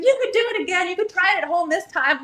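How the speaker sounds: high, cheery midwife voice; mock midwife. Midwife cheerfully suggests a home birth, high and bright. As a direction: play the breezy midwife. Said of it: "She's like".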